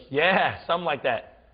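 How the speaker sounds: offhand New England car guy; New England accent. Retold or imitated. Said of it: "had the best accent ever".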